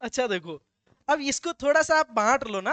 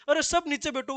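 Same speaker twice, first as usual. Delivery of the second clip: mock shout; 5 semitones higher than usual. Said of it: "वो खड़ा होके कहता है".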